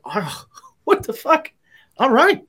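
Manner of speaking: baffled, then giving in with a laugh; stunned disbelief. Retold or imitated. Retold reaction to handed cookie.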